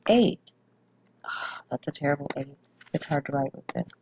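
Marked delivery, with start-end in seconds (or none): 1.2-3.9 whispered aside. Real, not acted. Frustrated aside while writing.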